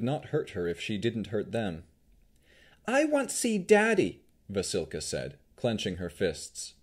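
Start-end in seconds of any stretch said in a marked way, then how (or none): 2.9-4.2 high-pitched pleading golem; very high childlike creature voice. A narrator's reading. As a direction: whine for Daddy in a high, simple voice.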